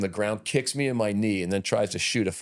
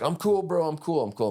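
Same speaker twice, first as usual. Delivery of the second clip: high, hurried imitation of a guy backing off; 9 semitones higher than usual. Guy pulled out of a brawl insists he's calm, high-pitched. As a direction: pitch it way up and plead that you're fine. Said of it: "He's like".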